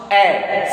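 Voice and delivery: "A" pronounced as an open "eh"; sound demo. Shown as a demonstration. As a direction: isolate "A" as the French open e sound. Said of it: "A will be pronounced".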